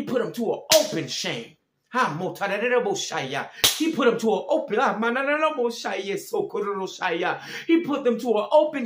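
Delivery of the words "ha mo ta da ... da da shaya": rapid syllables of tongues, rhythmic and unworded; speaking in tongues. Real, not acted. Preacher breaking into tongues mid-sermon, fervent babbled syllables. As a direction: let the spirit pour out in tongues.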